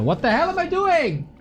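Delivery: exasperated. Real, not acted. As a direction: cry out at your own blunder. Frustrated at own misplay.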